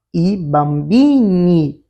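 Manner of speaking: "i bambini" spoken slowly and clearly in Italian; teacher slowly sounds out "i bambini"; Italian plural example. Shown as a demonstration. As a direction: model "i bambini" slowly for the class. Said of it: "Vamos ver uns exemplos?".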